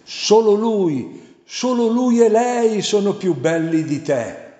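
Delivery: high, loud snarling demon. A narrator's reading. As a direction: spit it out like a tormented devil.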